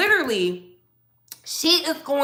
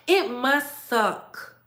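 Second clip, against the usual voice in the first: slow mock pity; much slower than usual. Shown as a demonstration. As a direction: draw out It must suck with fake pity. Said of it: "repeated louder".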